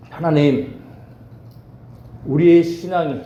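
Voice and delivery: earnest, even-toned public prayer; congregational prayer. Real, not acted. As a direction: pray aloud on behalf of the congregation. (회중을 대표해 드리는 간절한 기도)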